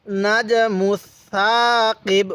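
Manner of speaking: lisped soft "th" in "মুসাকিব", never an s or sh; slow "মুসাকিব" as "muth-thaa-qib", vowel drawn out; soft tha. Shown as a demonstration. Teacher modelling soft letter for learners, "th" in slow "মুসাকিব". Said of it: "এই সাটাকে আমরা নরম করে".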